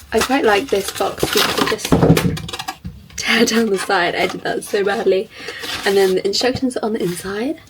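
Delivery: slightly hoarse from being ill; croaky, recovering voice. Real, not acted. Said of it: "I have a little bit of a croaky voice".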